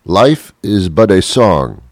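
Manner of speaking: slow mock-wise proclamation; slow, hammed-up sage saying; sage pronouncement. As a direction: intone it like an ancient sage. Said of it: "Confucius say".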